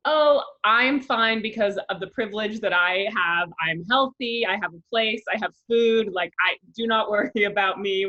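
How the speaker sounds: mock cheery reassurance. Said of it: "You're always like".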